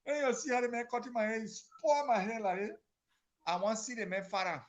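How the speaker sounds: indignant complaint. Acted. Spada complains angrily, voiced.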